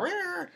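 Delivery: a short, high mock roar of temper; playful imitation of an outburst; mock angry roar. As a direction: roar like a teen about to blow up. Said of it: "she'll get all".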